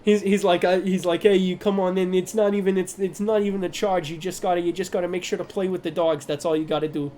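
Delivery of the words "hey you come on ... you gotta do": easygoing New York host; New York accent. Acted. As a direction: reassure guests like a chatty New Yorker. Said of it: "We're gonna do New York".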